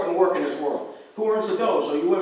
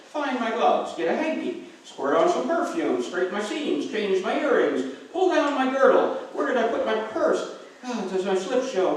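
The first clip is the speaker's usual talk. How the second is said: mock fussy woman, climbing higher toward the end; mimicking his wife; 5 semitones higher than usual. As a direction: ham up a woman's primping list, pitch rising. Husband mimics wife's primping list.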